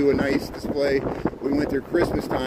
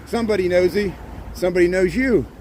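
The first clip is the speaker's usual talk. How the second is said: shouting over wind; 5 semitones higher than usual. Real, not acted. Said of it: "I'm screaming over the wind".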